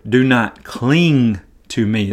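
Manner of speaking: slow, gentle, unhurried; gentle correction. Shown as a demonstration. Preacher giving the better Greek reading, gentle and slow. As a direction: ease her off kindly. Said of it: "the Greek says".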